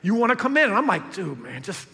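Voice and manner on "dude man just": building shout. Retold or imitated. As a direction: yell it through the door. Urging Jesus to bust in.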